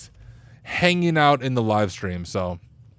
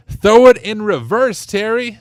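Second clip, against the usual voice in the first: meme video quote; 5 semitones higher, 4 dB louder than usual. Retold or imitated. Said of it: "You guys remember that video?".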